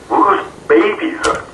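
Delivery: high, slow, retold disbelief; astonished. Abductee looking around room full of babies, astonished. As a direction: draw the question out in wonder.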